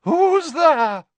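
loud, very high theatrical call; high, ringing shout in character. A narrator's reading. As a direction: call out into the dark as a dramatic seer. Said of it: "And then I called out".

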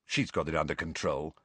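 low muttered aside; muttering. A narrator's reading. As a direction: mutter it under your breath. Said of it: "then muttered to Harry".

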